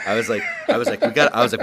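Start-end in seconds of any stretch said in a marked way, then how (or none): 1.0-1.3 loud, heated retelling of a yell; retold yelling. Host retelling his angry call to a friend, yelling. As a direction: raise your voice, re-enacting your own outburst. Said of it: "I was, like, fucking yelling".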